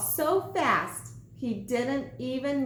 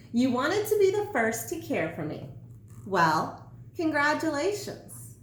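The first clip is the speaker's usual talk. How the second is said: lightly voiced sandwich, smug and higher; bossy sandwich; 4 semitones higher than usual. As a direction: order him about with mock congratulations. Sandwich bossing Pinkerton.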